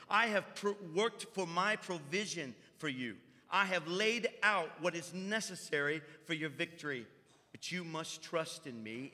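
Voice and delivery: prophetic declaration. Acted. Preacher delivering a prophecy, solemn declaration. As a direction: declare it as God speaking to the church. Prophetic word spoken as God.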